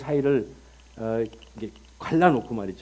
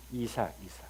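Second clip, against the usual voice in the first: whispered name, no voice; 5 semitones lower, 12 dB quieter than usual. Real, not acted. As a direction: breathe the name softly. Whispered answer. (속삭이며 이삭 이삭)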